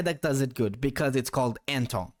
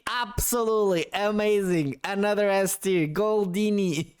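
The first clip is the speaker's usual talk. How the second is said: showy excitement; 4 semitones higher than usual. Real, not acted. Streamer awarding Goldini the S tier, showy excitement. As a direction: proclaim it like a stage act. Hams up praise for showman name.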